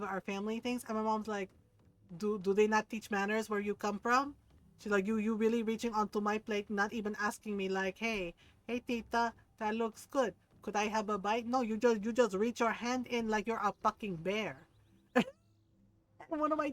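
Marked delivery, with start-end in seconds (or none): 2.2-4.3 scolding in an imitated Filipino accent; Filipino mom accent. Mom scolds a rude food-grabber, imitated Filipino accent. 5.1-14.7 scolding in an imitated Filipino accent; Filipino mom accent. Mom scolds a rude food-grabber, imitated Filipino accent.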